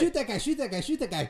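high, urgent egging-on; excited kibitzer barking orders; backseat gamer. Pretend. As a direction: pester the player in quick bursts.

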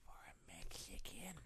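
hushed, bitter whisper. Acted. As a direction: whisper it like a dirty secret.

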